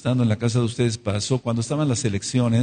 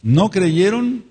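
slow emphasis; 8 semitones higher, 5 dB louder, much slower than usual. Real, not acted. Preacher stresses key phrase.

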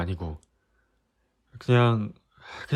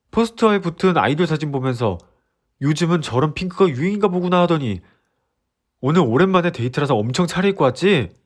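heated confession; 4 semitones higher, 3 dB louder than usual. Acted. Boyfriend continuing heated confession.

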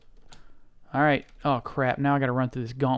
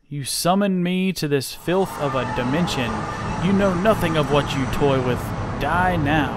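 void monster voice; 5 dB louder than usual. Acted. Summoned void creature speaks.

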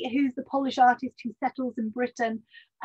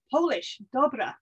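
put-on Scottish accent. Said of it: "I am doing the accent".

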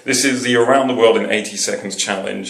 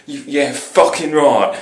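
drawn-out, slow cockney; cockney put-on; cockney accent; 3 semitones higher, slower than usual. Shown as a demonstration. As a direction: stretch it out in broad cockney. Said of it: "I can be a fucking cockney".

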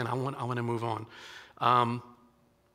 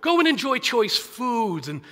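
urgent call to the crowd; 6 semitones higher, 4 dB louder than usual. Retold or imitated. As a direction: call the weeping crowd to stop and listen. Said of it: "And Nehemiah says".

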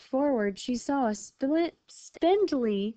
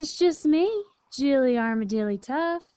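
high, louder armadillo reply; middle sister; 4 semitones higher, 5 dB louder than usual. A narrator's reading. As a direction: chirp it up high and announce the name. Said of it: "the middle sister replied".

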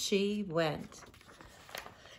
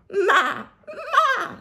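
high, loud bleat; bleating goat; 8 dB louder than usual. Acted. Teacher voicing the goat, high bleat. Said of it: "said goat".

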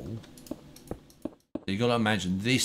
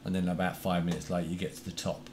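robotic, monotone robot voice; 3 dB quieter, faster than usual. Real, not acted. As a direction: sound like a robot on the line. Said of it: "Why do you sound like a robot?".

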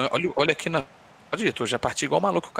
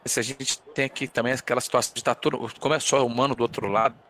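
choppy, cutting-out call audio; glitching robot. Real, not acted. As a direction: voice breaking up over a bad connection. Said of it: "Pra ficar com a voz travando pra caramba?".

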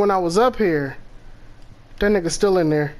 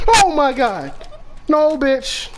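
startled fright; 5 semitones higher, slower than usual. Real, not acted. Jump scare in the game.

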